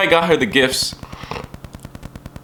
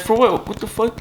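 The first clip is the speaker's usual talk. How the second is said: imitating mom; 9 semitones higher than usual. Mom refuses money.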